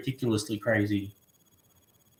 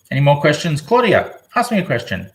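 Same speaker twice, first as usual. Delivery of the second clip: calling out; 2 semitones higher, 7 dB louder than usual. Real, not acted. Calling out to a viewer.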